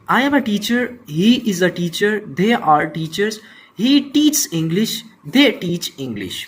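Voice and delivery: careful read of each example sentence; slow example reading. Shown as a demonstration. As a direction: read the table aloud for the class. Teacher reads example table.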